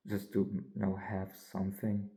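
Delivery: tired, fading yawn-filled words. Real, not acted. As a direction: let a yawn drag the words. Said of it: "I'm yawning right now so fucking much".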